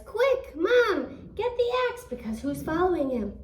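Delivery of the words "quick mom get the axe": much higher, louder urgent cry; urgent shout. Acted. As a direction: call to mom in a panic. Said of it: "And he says".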